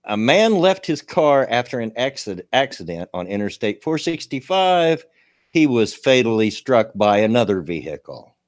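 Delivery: reading a news item aloud. Acted. Streamer reading a local crash story to chat, news read. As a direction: read the report straight through, newsy.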